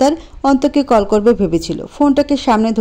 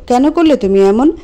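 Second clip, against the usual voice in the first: raised, tearful accusation; crying loudly; 3 semitones higher than usual. Acted. Priya crying and shouting at Anto. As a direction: cry it at him. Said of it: "কেঁদে কেঁদে জোর গলায় বলল".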